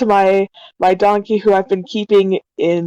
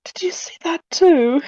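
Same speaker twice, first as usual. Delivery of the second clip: startled question; 7 semitones higher than usual. Acted. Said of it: "I look at Amaya and I'm like".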